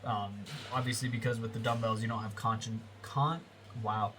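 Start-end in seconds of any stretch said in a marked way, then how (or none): 2.3-3.4 tripping over the word; congested, stuttering false starts. Real, not acted. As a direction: stumble and restart mid-word. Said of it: "I'm stuttering because my nose is clogged".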